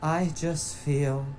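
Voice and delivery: blissed-out wife. Retold or imitated. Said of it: "she just goes".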